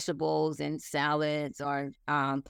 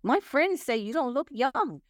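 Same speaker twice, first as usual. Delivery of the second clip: imitating grandson; 7 semitones higher than usual. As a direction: relay the boy's news, pitched up. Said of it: "He said".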